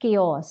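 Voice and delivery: chaos said slowly as KAY-os, clear and drawn out; slow model word. Shown as a demonstration. Teacher models chaos slowly for beginners. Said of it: "इस word को हम कैसे pronounce करेंगे".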